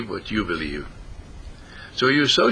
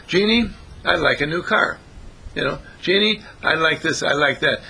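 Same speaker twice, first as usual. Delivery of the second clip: higher-pitched, lightly played wishing; lightly acted request; 4 semitones higher than usual. Preacher plays the Major asking his genie for things, lightly calling. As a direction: call up to the genie with your wishes. Acts out asking Jeannie for wishes.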